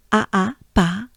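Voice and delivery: pas with an open A; French A. Shown as a demonstration. Teacher drills the A in pas. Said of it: "French A for pas".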